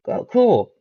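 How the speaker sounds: high, bright excited "Oh, cool". Retold or imitated. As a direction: chirp it with sudden high delight. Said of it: "and it's like".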